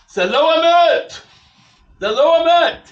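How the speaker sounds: full-force high shout of protest; imitating an outraged man shouting; excited outburst. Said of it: "He gets very excited".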